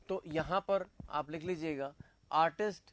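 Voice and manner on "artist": word by word with long pauses; dictation. Real, not acted. Teacher dictating notes for students to write, dictation pace. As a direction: dictate slowly, piece by piece.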